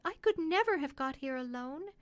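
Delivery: lightly voiced thankful country mother; grateful mother.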